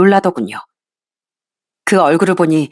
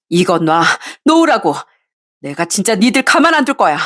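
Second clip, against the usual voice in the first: furious wife. Acted. Wife struggles free.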